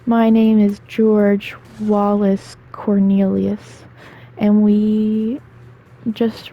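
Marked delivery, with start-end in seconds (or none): 0.1-3.8 imitating solemn child. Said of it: "No, he was like".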